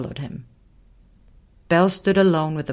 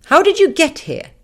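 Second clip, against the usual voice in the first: very high, louder lion question; curious little lion; 12 semitones higher, 7 dB louder than usual. Acted. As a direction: ask eagerly. A creature questions Belle.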